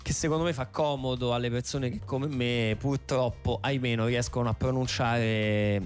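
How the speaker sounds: usual speaking voice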